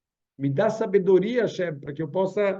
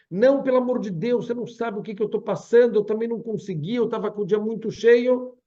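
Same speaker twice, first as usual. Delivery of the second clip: pleading excuses; 5 semitones higher than usual. Retold or imitated. Caller begs loudly again.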